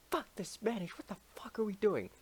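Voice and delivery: high, hushed whisper; high whispered mock crowd; whispered rebel quote. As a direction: whisper it like a conspirator.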